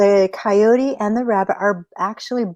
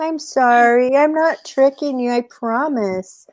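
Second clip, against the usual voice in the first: put-on pleading child; 5 semitones higher than usual. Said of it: "you're like".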